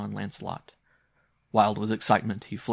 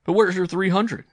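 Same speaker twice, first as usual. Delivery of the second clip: high, loud amused challenge; mildly laughing uncle; 11 semitones higher, 10 dB louder than usual. A narrator's reading. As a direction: tease the boy with a hint of laughter. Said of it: "he said, laughing".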